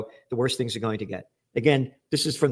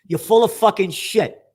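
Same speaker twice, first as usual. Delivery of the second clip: angry; 3 semitones higher, 5 dB louder than usual. Real, not acted. Berating the journalist.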